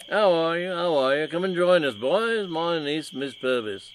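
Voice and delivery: high, loud, gushing aristocrat; lightly voiced eager nobleman; eager posh gentleman. Rumbelow voiced by reader.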